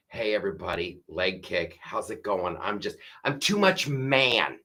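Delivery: mock him as a goofy everyman; mocking Tim Walz. Comedian mocking Tim Walz's manly act, soft dopey voice. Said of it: "Tim Walz, that should be it".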